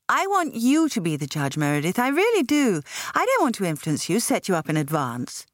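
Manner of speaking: pleading with her friend to judge; Patsy voiced.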